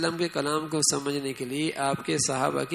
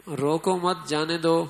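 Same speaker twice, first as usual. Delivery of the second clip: "روکو مت جانے دو" read evenly in one run; slow, unbroken reading of "روکو مت جانے دو"; unbroken phrase; slower than usual. Shown as a demonstration. Reading out an Urdu sentence whose meaning is ambiguous, unbroken phrase. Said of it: "پڑھنے کے اندر معنی میں اتنی تبدیلی".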